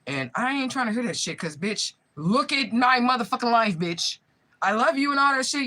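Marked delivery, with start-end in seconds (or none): 1.6-4.2 slow, louder, bitter demand; angry outburst. Real, not acted. To the aunt who kidnapped her, slow angry outburst. 4.6-5.6 higher and louder, brushing it off; scornful dismissal. Real, not acted. To the aunt saying sorry, loud scornful brush-off.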